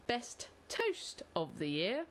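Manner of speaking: slow, weighty category announcement; grand announcement. Acted. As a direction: announce it like an award title.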